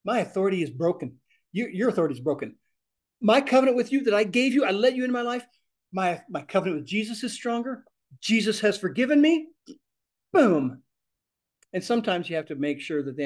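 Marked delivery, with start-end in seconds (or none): 0.0-10.8 higher, forceful rebuke ending on a punchy boom; firm command. Shown as a demonstration. Teacher demonstrating a rebuke of fear. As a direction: command it out with full conviction. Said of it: "You need to understand what is being said there".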